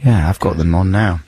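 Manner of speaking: croaky voice from a cold; hoarse voice. Real, not acted. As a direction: speak with a hoarse, sore throat. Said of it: "it's gone to my cords".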